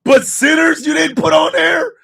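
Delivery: calling out the critics, laughing; incredulous laughing rant. Retold or imitated. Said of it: "I'm going".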